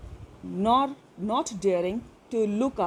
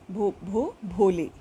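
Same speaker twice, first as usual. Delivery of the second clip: stammering then full name. Acted. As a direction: stammer twice, then land भोली clearly. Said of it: "At last she was able to say it". (हकलाकर फिर पूरा नाम)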